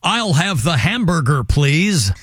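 carefully faked American accent. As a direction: correct yourself into mock American.

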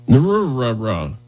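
host botching the new name on purpose, slowly; mock attempt. Shown as a demonstration. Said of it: "not attempting the next one".

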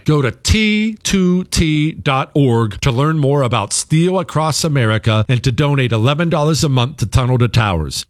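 brisk, polished sponsor read; host turns to read the sponsor ad, smooth and upbeat. Acted. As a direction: sell it like a radio spot.

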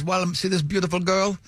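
lightly imitated Italian accent. Italian father showing a photo of his girl, light Italian accent. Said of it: "that is the accent he used".

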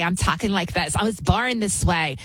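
lightly mocking effeminate voice, affected vowels; effeminate mimicry. Host mocks people blaming birth, a hint of effeminate affectation. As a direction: mimic an effeminate man making excuses. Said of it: "talk like an effeminate".

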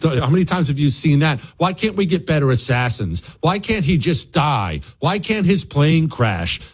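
a hint of offhand small talk about death; casual mock Democrat chatter. Host imitating Democrats at a party, lightly casual. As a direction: toss it off like weather chat. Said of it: "as if they're discussing the weather".

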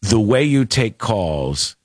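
a hint of a deep-voiced radio boss giving notes; program director. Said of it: "he was like".

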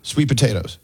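"Sweet potatoes" with SWEET leading; test-say "Sweet potatoes", softly; trying out the stress. Shown as a demonstration. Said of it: "Do you put the emphasis on the word sweet".

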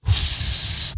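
blowing air out in a sigh; exasperated exhale. Retold or imitated. Batter loses challenge, blows out a frustrated sigh. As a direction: blow it out in frustration. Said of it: "he goes".

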